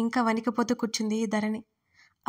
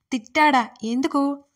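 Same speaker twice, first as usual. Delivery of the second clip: plain reading voice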